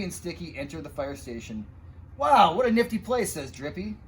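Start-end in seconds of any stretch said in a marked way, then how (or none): 2.2-3.3 high, loud, delighted wow; excited wow. Acted. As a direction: gush over the fire station. Painter admires the fire station.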